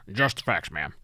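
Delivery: hint of a deadpan TV detective; half-hearted try at a Dragnet cop; Dragnet impersonation. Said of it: "drag the impersonation".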